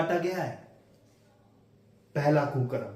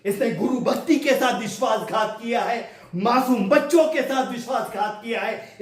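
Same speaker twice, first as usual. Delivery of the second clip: impassioned accusation; 4 semitones higher than usual. Acted. Lawyer's climactic accusation in court.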